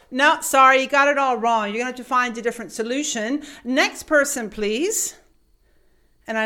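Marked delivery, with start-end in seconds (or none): 0.1-5.1 loud, brusque brush-off; dismissive clerk. Retold or imitated. Clerk loudly dismissing customer to call the next person. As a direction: wave her away, next.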